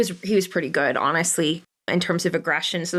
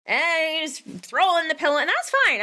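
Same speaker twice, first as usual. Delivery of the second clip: light high; 8 semitones higher than usual. Real, not acted. Relaxed retelling, raised voice.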